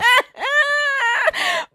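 shrill high laugh with a yelp; high shrieking laugh. Real, not acted. Laughing fit.

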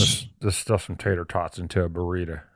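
riff along as a put-on Texan; Texas accent. Shown as a demonstration. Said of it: "Let me try my Texas accent".

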